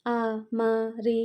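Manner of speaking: drawn-out, broken-up echo of a stammer; mocking stammer. A narrator's reading. Vikki mocks Madhu's faltering reply, imitating the stammer. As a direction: split the syllables to mimic the hesitation. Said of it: "నత్తి కూడా ఉందా నీకు".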